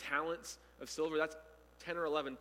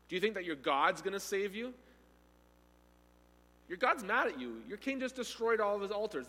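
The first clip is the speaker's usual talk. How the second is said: scornful jeering at the besieged city; mocking taunt. Assyrian officers taunting Jerusalem's people, mocking. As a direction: sneer the questions like a gloating enemy. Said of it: "they start mocking".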